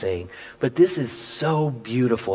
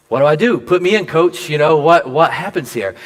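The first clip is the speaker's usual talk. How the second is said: eager; 2 semitones higher, 5 dB louder than usual. Retold or imitated. Eager retold readiness.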